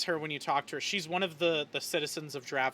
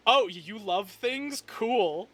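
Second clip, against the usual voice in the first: passive-aggressive; 4 semitones higher, 3 dB louder, slower than usual. Retold or imitated. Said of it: "Toman's passive-aggressive".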